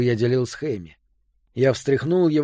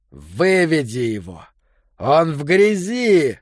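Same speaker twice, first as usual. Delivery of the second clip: yelling; 3 semitones higher, 4 dB louder, slower than usual. Retold or imitated. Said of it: "вопящий Келлен".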